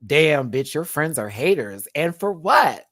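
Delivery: lightly voicing her sassy message; a hint of Plane's voice; reading in her voice. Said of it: "I was reading it in her voice".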